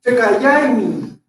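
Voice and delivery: Tekayaini said slowly, each syllable separate; deliberate teaching pronunciation of Tekayaini; slow pronunciation demo. Shown as a demonstration. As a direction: model Tekayaini slowly for the class. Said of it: "Entonces, en este caso".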